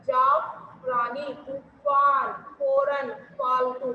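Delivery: जाफरानी, तूफान, फौरन, फालतू with a real f, lips not closed; slow clear f through the teeth; f sound. Shown as a demonstration. Teacher demonstrating the f in loanwords. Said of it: "दोनों होठों को मिलाया नहीं जाता".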